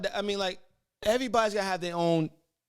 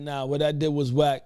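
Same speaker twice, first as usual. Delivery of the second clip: Ghostface voice; 2 semitones lower, 3 dB louder than usual. Retold or imitated. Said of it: "Ghostface voice".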